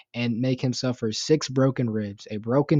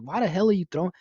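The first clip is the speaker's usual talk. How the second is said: outraged disbelief; 7 semitones higher, faster than usual. Real, not acted. Outraged at father throwing baby.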